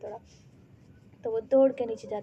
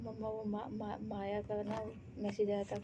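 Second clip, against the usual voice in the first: soft, stumbling on मा- before माया; stammering; 6 dB quieter than usual. Acted. Daughter stammers out the friend's name to mom. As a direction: trip over the name, softer. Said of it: "हकला क्यों रही हो".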